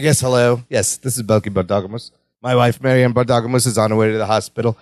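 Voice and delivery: low-pitched, composed imitation of a caller; very calm. Balky phoning the doctor about his wife's labor, calm. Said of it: "very calm".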